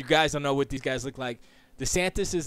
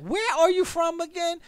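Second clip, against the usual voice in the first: puzzled question; 3 dB louder than usual. Retold or imitated. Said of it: "you're like".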